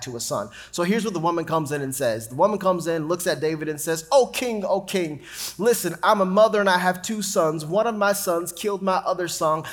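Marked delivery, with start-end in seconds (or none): 4.1-9.6 raised, imploring plea to a king; pleading mother. Acted. Woman pleading with King David for her son, raised and imploring. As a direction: beg the king as a grieving mother.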